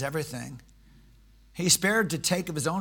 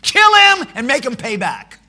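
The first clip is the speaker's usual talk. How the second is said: loud high furious demand; angry outburst; 8 semitones higher, 16 dB louder than usual. Retold or imitated. David raging at the rich man. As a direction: blurt it out in a rage. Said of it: "when you're angry, you say really stupid things".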